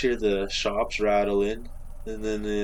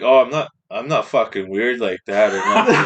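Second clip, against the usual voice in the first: laughing protest; 8 dB louder than usual. Retold or imitated. Awkward reassurance, laughing.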